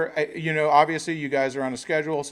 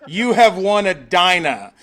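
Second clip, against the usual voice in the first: voice of fate; 4 semitones higher, 6 dB louder than usual. Pretend. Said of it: "And it says".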